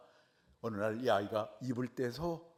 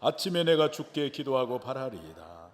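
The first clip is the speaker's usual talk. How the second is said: psalm reading; 4 dB louder than usual. Shown as a demonstration. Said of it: "한번 보겠어요".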